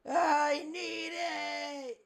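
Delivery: slow, high desperate whine; SpongeBob meme. Retold or imitated. Friend quoting the meme, slow high desperate whine. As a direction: drag it out, giving in. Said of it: "It's like the SpongeBob meme".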